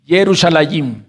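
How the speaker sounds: Yerushalayim at normal speed, run together; said quickly. Shown as a demonstration. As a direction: rattle off Yerushalayim in one go. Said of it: "ahora te lo digo rápido".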